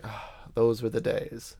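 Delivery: slow, wistful "ah, those were the days"; nostalgic sigh. Retold or imitated. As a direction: sigh it like fond memories. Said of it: "look back at and go like".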